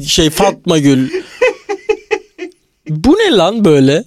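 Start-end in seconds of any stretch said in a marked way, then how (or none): 0.0-1.1 slow words through a laugh. Real, not acted. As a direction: giggle the name out slowly. Laughing at cat names.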